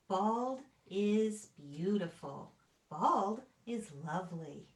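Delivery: slow, deliberate affirmations, each line weighed; dramatic storybook reading. Acted. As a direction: savour every "Bald is" like a proud refrain. Reading picture book aloud dramatically.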